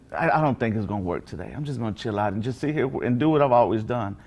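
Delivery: low, listless excuse-making; apathetic procrastinator. Retold or imitated. Preacher mimics someone content to just sit here, low and apathetic. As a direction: sink into a lazy, resigned low voice. Voices a procrastinator, contrasted with screaming.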